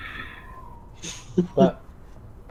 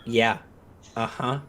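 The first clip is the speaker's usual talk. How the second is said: sarcastic; 2 semitones lower, 3 dB quieter than usual. Retold or imitated. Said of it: "the look of".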